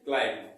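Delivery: क्लाइंब as "klaim", dropping in pitch; correct pronunciation. Shown as a demonstration. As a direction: end क्लाइंब on m, no b. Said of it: "उसको क्या बोलते हैं".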